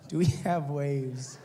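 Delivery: slow, low incredulous echo; deadpan disbelief. Retold or imitated. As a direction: repeat it slowly, not believing it. Repeats her stupid question in disbelief.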